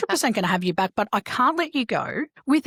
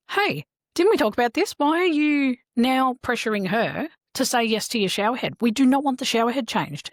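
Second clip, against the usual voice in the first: retold confrontation; 5 semitones higher than usual.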